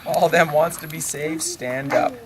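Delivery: a hint of a revival minister; minister's call. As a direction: call out to the congregation. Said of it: "The minister says".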